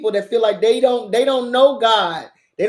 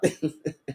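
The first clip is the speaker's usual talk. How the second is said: evil laugh; 4 semitones lower, 11 dB quieter than usual. Retold or imitated. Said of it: "that evil ass laugh I have".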